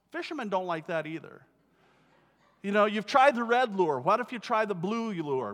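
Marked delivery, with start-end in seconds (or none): none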